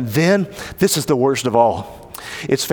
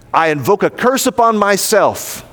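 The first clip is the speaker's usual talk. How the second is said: higher, emphatic self-curse; mild sworn curse; 5 semitones higher than usual. Acted. Peter curses himself at the third denial, emphatic oath. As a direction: swear it with some force. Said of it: "he cursed and swore".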